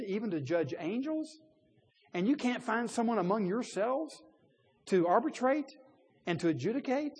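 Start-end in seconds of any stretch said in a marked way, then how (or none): 2.1-7.1 higher and louder, pressing the question; rising preacher's indignation. Real, not acted. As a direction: make them feel how absurd it is. Rhetorical question raised.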